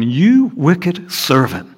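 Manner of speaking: angry master. Acted. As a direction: scold the servant from on high. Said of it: "said to him".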